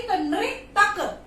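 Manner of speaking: "नृतक" drawn out slowly, syllable by syllable; slow demonstration. Shown as a demonstration. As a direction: spell out "नृतक" very slowly for the class. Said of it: "क पे मात्राएं नहीं है". ("नृतक" को बहुत धीरे, अक्षर-अक्षर बोलकर)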